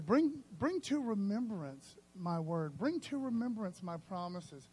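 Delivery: slow, solemn, drawn-out; lightly voiced God. God telling believers to remind him of his promises, solemn. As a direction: speak as God, measured. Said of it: "God says".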